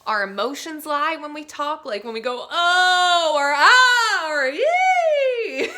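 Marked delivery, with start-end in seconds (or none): 2.5-5.7 loud, much higher cried vowels; demoing emotion in vowel sounds, loud and high; emotional vowels. Shown as a demonstration. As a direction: let the feeling burst out on each vowel. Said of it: "the vowels are where our emotions lie".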